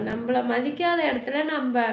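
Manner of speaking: ordinary talk, nothing marked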